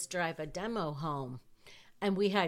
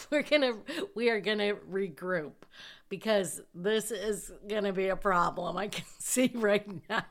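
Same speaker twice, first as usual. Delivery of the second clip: a giggle breaking into the words, a bit louder; laughing through it; 3 semitones higher, 4 dB louder than usual. Real, not acted. Reliving the instructor's reaction, laughing. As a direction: keep chuckling while quoting the instructor. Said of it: "I don't know why I'm laughing".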